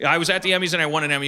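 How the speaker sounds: quick, bragging announcement; proud boast. Shown as a demonstration. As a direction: rush it out like a proud winner. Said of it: "what I mean is, when I say I, I mean the show".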